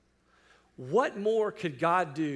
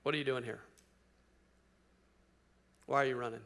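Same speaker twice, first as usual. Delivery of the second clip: God's voice; 5 semitones lower, 6 dB quieter, faster than usual. Retold or imitated. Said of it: "a voice said to him".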